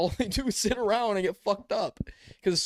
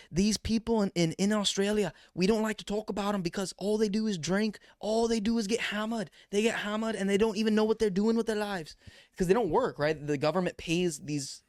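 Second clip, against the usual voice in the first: Australian accent attempt; 3 semitones higher than usual. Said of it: "Sounded Irish there".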